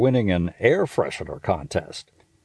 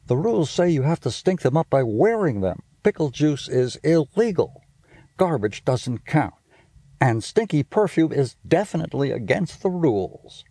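lightly higher, rule-quoting little brother; Stink's voice; 5 semitones higher than usual. Acted. Little brother reciting contest rules to his sister, lightly higher. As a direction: lay down the rules like a stickler.

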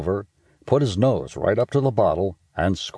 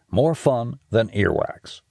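slow tagline; 3 semitones higher than usual. A narrator's reading. Segment tagline read slowly.

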